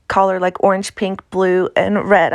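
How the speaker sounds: natural Appalachian pronunciation of color words; Appalachian accent. Real, not acted. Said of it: "It's my Appalachian accent coming through".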